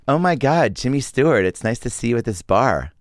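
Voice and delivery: a lightly voiced starstruck girl at a bar. Woman at a bar gushing over a movie star, lightly played. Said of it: "I'll be the girl at the bar".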